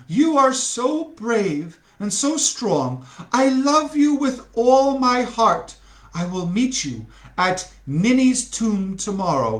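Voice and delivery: high swooning voice; lovesick heroine. Acted. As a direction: swoon like a stage lover. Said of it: "said Francis".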